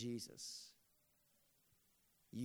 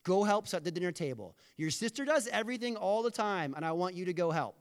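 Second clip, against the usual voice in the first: hammed-up yelling, much louder and higher; mock angry shout; 6 semitones higher, 9 dB louder than usual. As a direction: bellow it like a fed-up boss ordering her up. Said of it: "And Jesus said".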